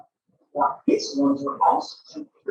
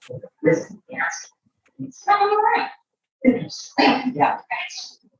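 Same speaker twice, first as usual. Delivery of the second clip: booming ringmaster build-up; circus announcer. A narrator's reading. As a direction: present the act like a showman. Announces the strongman act.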